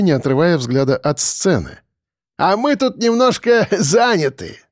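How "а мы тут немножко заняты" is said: high, teasing voice with a chuckle; smirking. A narrator's reading. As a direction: tease the lookout, chuckling mid-line. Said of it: "подчинился их ухмылкам".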